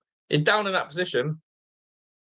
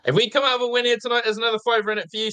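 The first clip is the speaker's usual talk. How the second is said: Alan Ford quote; 6 semitones higher, faster than usual. Retold or imitated. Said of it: "said Alan Ford".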